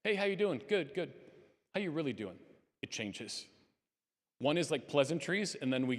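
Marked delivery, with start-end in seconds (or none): 0.0-0.6 high, bright small-talk greeting, tossed off; a quick casual hello in passing; breezy pleasantry. Shown as a demonstration. Greeting a friend with surface small talk, breezy. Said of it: "Ask twice". 0.7-1.1 automatic brush-off reply. Shown as a demonstration. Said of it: "Ask twice". 1.8-2.4 sincere follow-up. Shown as a demonstration. Asking a friend a second time, gently and sincerely. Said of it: "Ask twice".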